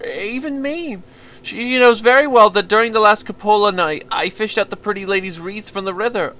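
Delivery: nervous simple-minded fiddler, apologetic and eager; timid stammering boy. Acted. Violinist pouring his heart out to the visitor, timid stammer. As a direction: stammer out your excuses to the stranger.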